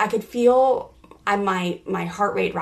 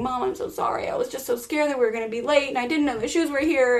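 upset daughter; 5 semitones higher, faster than usual. Retold or imitated. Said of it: "she started to just go into the whole thing".

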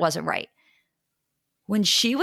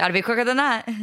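put-on echoed Brooklyn accent line; hint of a Brooklyn accent; 4 semitones higher, 3 dB louder, faster than usual. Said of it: "the Brooklyn accent on the quicker".

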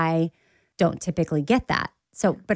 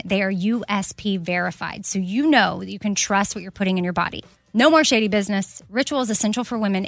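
upbeat sponsor read; bright ad-read delivery. Acted. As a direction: sell it like a podcast ad. Ad read by host.

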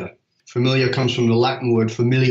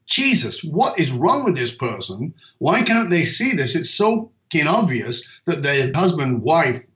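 exasperated rant; 3 semitones higher than usual. Retold or imitated. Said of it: "looked at a friend and gone".

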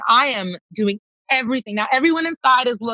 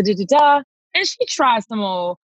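usual speaking voice

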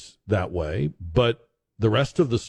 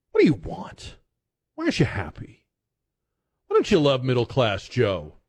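mock whiny president; 2 semitones higher than usual. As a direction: parody a baffled, pouting politician. Mocking president's voice.

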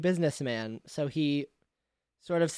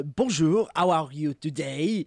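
French shopkeeper's greeting; French accent. Acted. Cheese seller greeting a new customer, French accent. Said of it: "French accent and all".

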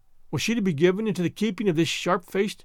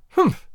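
a sharp high scoffing snort; scornful humph; 11 semitones higher, 5 dB louder than usual. A narrator's reading. Stern woman sizing up an orphan, scornful humph. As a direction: snort your contempt at the thin little girl.

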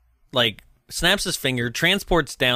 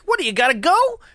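much higher acted question; Joe asking; 14 semitones higher, faster than usual. Joe asks Santa about leaving, mock puzzled. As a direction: voice a puzzled character, pitched up.

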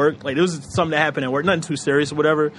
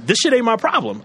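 blunt brush-off; 5 semitones higher than usual. Retold or imitated. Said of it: "I didn't say".

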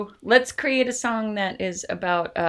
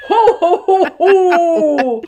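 laughing; 7 semitones higher, 9 dB louder, slower than usual. Real, not acted. Laughing at own mistake.

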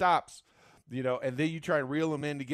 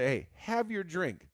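a light, higher Caribbean island host voice; Caribbean island accent; 6 semitones higher than usual. Retold or imitated. Friend voicing island hospitality staff, in a light, higher Caribbean accent. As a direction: play the relaxed island host offering a drink. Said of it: "keep breaking into that little bit of, accent there".

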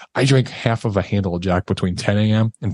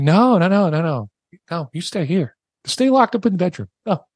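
upset refusal; 8 semitones higher than usual. Retold or imitated. Drunk husband refusing his wife, high and upset. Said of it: "being obstinate 'cause I'm upset".

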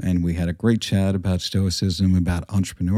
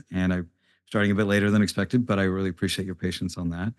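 quiet, far from mic. Real, not acted. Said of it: "I sound very quiet on that".

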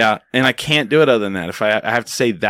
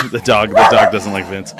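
talking through laughter; 5 dB louder than usual. Real, not acted. Laughing about the dog.

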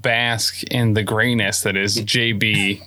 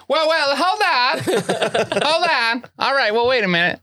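Lucky's voice; 13 semitones higher than usual. Shown as a demonstration. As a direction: hold them off in Lucky's voice. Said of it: "For Lucky, it's always a".

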